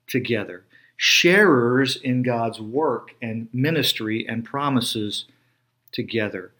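each "together" set apart after a pause, slowly and deliberately; slow, weighty repeated "together", set off by pauses; emphasis on together. Shown as a demonstration. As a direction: lean on "together" every time it comes back. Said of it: "I'm emphasizing the word "together".

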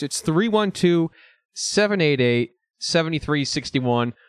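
slow announcer repeat of the number; radio ad repeating the hotline. Shown as a demonstration. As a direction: hammer the digits home like a radio ad. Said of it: "That's right, folks".

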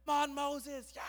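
high, loud cheer; cheering crowd. Acted. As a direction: egg the leader on excitedly.

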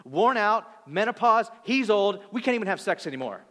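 scornful doubt. Retold or imitated. Sarah's scornful inner voice mocking.

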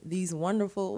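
mildly sarcastic praise; mock-admiring, lightly ironic. Real, not acted. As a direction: lay on a touch of sarcasm. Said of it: "I'm being sarcastic".

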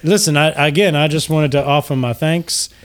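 genteel host gushing with gratitude; gracious Lucian Flametongue. Acted. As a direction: greet them with courtly, lilting flattery. Lucian describes the rooms.

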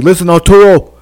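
lightly imitated boxing trainer; a hint of a coach's urgent voice; Buddy McGirt. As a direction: cornerman addressing his fighter. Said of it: "Buddy McGirt over there is going like".

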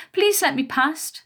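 high, slow mocking whine; mocking mimicry. A narrator's reading. Smaller bully mimicking her victim's plea, mocking. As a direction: draw it out in a high copycat voice. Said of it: "the smaller one mimicked".

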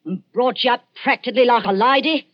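fast, shrewish scolding rant; scolding old woman. Acted. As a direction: berate her with rising anger. Old woman berating girl.

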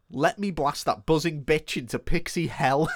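carefully paced villain line, word by word; each word set out distinctly; measured attempt. Shown as a demonstration. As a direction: attempt the tongue-twisting threat deliberately. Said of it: "And I'm gonna attempt this now".

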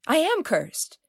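high, stricken cry of fear; dismayed cry. A narrator's reading. Nanaline hearing they are Chiriclo, stricken and high. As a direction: she recoils in dread.

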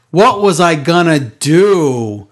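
slow, drawn-out mimicry of her promo voice; mocking imitation of a wrestler's halting speech; Charlotte impression. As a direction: stretch every word like a self-important promo. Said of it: "This is how she talks".

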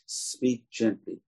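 soft and slow speak gently; gentle. Shown as a demonstration. Preacher modelling the advice, soft and slow. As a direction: say gently softly, as if soothing.

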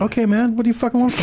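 mock exasperation. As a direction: protest as if cornered. Mock exasperation at being corrected.

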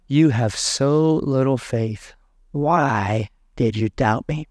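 slow, measured reproach, dropping at the end; grave rebuke. Acted. Jesus to sinking Peter, slow grave rebuke. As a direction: draw out each word of the rebuke.

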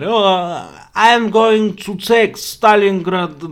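high, loud, slow mock dictator boast; mock Hitler. Mocking Hitler's confident plan for viewers, hammed-up high boast. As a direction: ham up a smug conqueror. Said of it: "That's not how he talked".

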